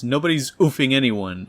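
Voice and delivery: mild retold yell; raging yell. Spider-Man snapping at the Shocker, a restrained mock yell. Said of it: "rages here for a split moment and yells".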